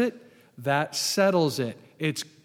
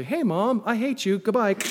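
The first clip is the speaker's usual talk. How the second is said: higher-pitched, hammed-up goodbye to mom; mock phone call; 4 semitones higher than usual. Pretending to phone Mom after the service, hammed-up. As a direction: play a breezy pretend call home.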